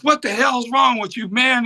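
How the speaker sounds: high, sharp mock scolding of an intruder; retold scolding. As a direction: snap at the kid who jumped on stage. Blind bluesman scolding a stranger.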